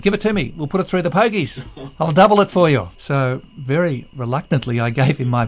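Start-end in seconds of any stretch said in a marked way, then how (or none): 0.0-2.9 high voice. Retold or imitated. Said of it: "he said".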